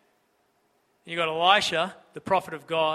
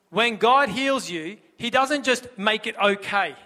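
very slow, deliberate phrase; slow right down on this; slow emphasis; 4 semitones higher, 5 dB louder, slower than usual. Real, not acted. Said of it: "slowed repeated emphasis".

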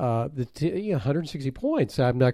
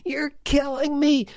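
even higher pained cry landing on "me"; mock anguish. Owner repeating his lament, higher mock anguish. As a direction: push "me" up high, mock agony.

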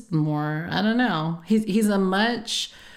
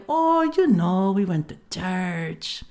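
slow, lightly voiced lower dad; imitating dad; much slower than usual. Daughter imitating her father telling about church, slow. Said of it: "He has, like, a much, like, lower voice".

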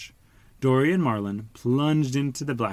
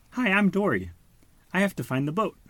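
bubbly Dory; 9 semitones higher than usual. Acted. Dory greets.

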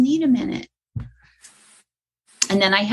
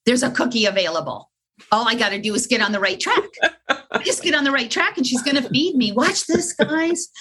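eager dog; 2 semitones higher, faster than usual. Retold or imitated. A dog telling the guys it's about to earn a treat, fast and eager.

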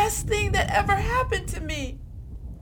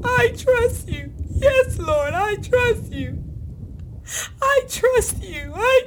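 higher, through sobs; crying; 5 semitones higher than usual. Acted. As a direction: let the voice break into crying. Prayer breaking into tears.

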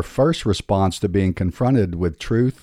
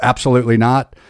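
"absolutely not" punched louder; absolutely not, emphatic; emphatic denial; 4 semitones higher, 6 dB louder, faster than usual. Shown as a demonstration. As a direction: stress "absolutely" with a rise. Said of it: "in your English translation".

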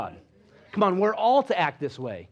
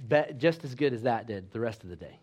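softer, lower blessing; 5 semitones lower, 3 dB quieter than usual. Retold or imitated. Patient blessing the shaken doctor, soft and gentle. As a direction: send him off gently. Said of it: "And she said".

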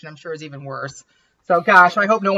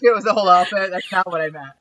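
measured reading voice for a story; story narration; 3 semitones lower than usual. A narrator's reading. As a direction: read the chapter aloud to the group. Reads her romance story aloud.

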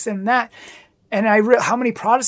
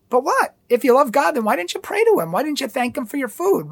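incredulous challenge; 5 semitones higher than usual. Retold or imitated. Challenging friends about prayer.

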